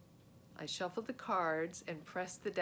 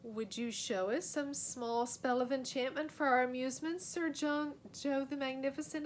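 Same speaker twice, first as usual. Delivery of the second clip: put-on old wizard voice; 6 semitones higher, 4 dB louder than usual. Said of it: "asked Merlin".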